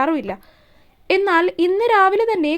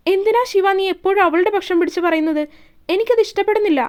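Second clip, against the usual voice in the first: jealous outburst; 3 semitones higher than usual. Acted. Isha shouting at Shiva for taking Ponnu's side. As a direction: fling എനിക്കത് ഇഷ്ടപ്പെടുന്നില്ല out high.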